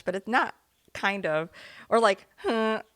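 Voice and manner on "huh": imitated honking hiccup; blow-horn hiccup. Shown as a demonstration. Co-host imitating her friend's foghorn-ish hiccup, blown huh. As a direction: mimic a hiccup like a party blower. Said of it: "like one of those blow things".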